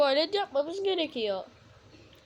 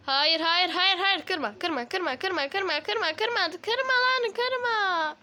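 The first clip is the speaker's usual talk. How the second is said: panicked pleading, voice climbing higher; frantic pleading; 6 semitones higher, much slower than usual. Real, not acted. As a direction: beg them to stop, nearly whining. Begging mobs not to break base.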